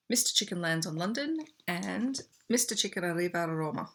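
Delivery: hammed-up Italian accent on the Rome title; mock Italian accent, lightly put on; bad Italian accent. Reading the Italian book title to viewers, mock Italian accent. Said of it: "which is really bad accent".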